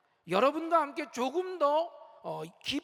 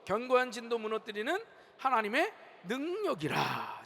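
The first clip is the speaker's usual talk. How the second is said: scripture reading aloud; 2 semitones lower than usual. Shown as a demonstration. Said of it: "다 같이 한번 읽어봅시다".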